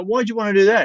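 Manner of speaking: very high, mock-puzzled question; host challenging Cam's motive, high and curious; probing question. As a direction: fish for his real reason.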